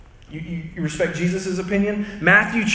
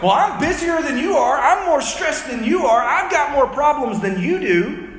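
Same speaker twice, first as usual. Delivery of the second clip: mock competitive boast; 5 semitones higher than usual. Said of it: "we're sort of like".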